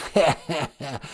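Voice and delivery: raspy mock-sinister laugh; hammed-up menacing laugh; creepy villain chuckle. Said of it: "Creepy Alec Baldwin".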